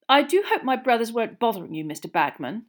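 fast, loud, eager apology; officious brother. A narrator's reading. Officious young man apologising to senior official, fawning. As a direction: rush in with fussy deference. Percy fawns on ministry official.

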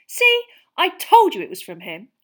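high, loud "told you so"; triumphant. A narrator's reading. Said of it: "said Hermione triumphantly".

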